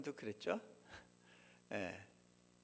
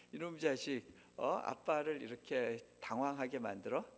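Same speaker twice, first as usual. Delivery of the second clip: a touch of a father's exasperated scolding; half-hearted mock rebuke of the son; mock angry scolding. Father scolding his son over the test, mildly angry. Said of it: "저한테 화가 났어요".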